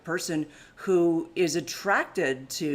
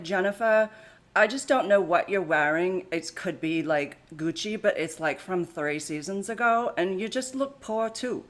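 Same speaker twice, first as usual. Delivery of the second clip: put-on Anna Delvey accent. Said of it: "That's my accent".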